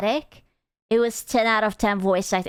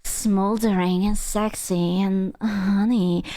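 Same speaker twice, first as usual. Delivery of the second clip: smoldering sexy voice; 2 semitones lower than usual. Retold or imitated. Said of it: "she's talking like this".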